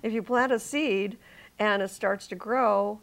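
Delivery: put-on slow, light Indian accent. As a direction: imitate the teacher's Indian accent, slowly. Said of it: "he said it in a deep Indian accent".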